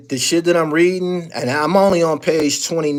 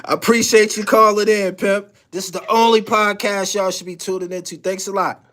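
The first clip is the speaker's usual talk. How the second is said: laughing sign-off; 6 semitones higher than usual. Retold or imitated. Mock-repeats his caller hang-up line.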